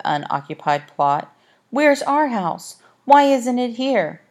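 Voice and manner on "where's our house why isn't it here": high, slow and alarmed; a girl frightened her home is gone; a young girl's anxious question; upset girl. A narrator's reading. Olive upset at missing house.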